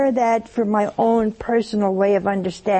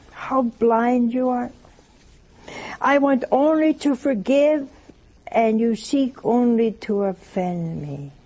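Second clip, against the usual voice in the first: voicing Jesus; slower than usual. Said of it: "These are the words of Jesus".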